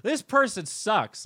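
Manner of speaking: high, slow sneering "This person sucks."; mock fan voice. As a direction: pitch up and drag "This person sucks." like a smug fan. Mocking fans' comment.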